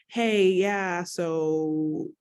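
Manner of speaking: awkward laugh mid-question. Retold or imitated. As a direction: laugh through the awkward ask. Retelling asking boyfriend, laughing.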